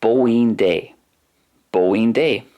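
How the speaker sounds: "bóin dé" said BOH-in DAY; teacher models "bóin dé"; Irish phrase modelled. Shown as a demonstration. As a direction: repeat "bóin dé" fondly, clearly. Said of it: "favourite words in Irish is".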